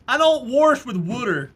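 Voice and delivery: put-on over-the-top Southern accent, loud; hammed-up southern accent. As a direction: belt it out with an exaggerated Southern twang. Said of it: "True test of southern accent".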